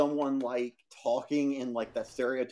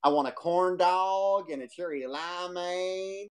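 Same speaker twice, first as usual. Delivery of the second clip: put-on stereotypical Southern accent; 4 semitones higher, slower than usual. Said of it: "in the most stereotypical Southern accent".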